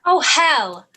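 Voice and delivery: loud frustrated exclamation; exasperated outburst. Acted. Elizabeth to Jane, exasperated. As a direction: throw up your hands.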